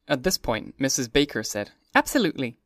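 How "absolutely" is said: sudden outburst. Acted. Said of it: "with such a suddenness that I started".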